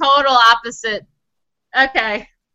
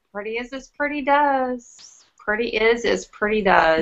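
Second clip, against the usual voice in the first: put-on soft, low, measured recital of an old saying; quoted scolding saying; 4 semitones lower, 7 dB quieter than usual. Quoting a scolding Southern elder.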